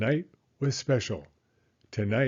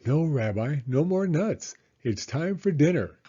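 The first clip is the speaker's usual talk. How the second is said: put-on higher, bright old grandmother voice; Baba Brena; 5 semitones higher than usual. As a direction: play the kindly old hostess, pitched up.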